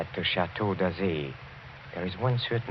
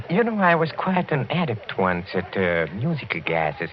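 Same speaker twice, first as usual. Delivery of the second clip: jolly boast; 5 semitones higher than usual. Acted. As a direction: play the genial eccentric host. Host boasts of musical glasses.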